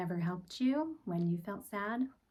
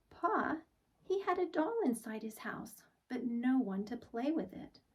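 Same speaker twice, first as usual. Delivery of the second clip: put-on higher little girl telling Pa; child voice; 5 semitones higher than usual. Laurel telling Pa about the doll, higher child voice. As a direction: speak it up like a worried child.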